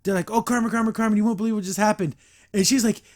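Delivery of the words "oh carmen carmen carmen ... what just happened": higher, fast, bursting with news; excited. Retold or imitated. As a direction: gush it out breathlessly.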